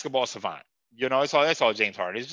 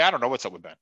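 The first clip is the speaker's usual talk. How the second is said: Doc Rivers impression; 4 semitones lower, much faster than usual. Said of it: "With his hoarse voice".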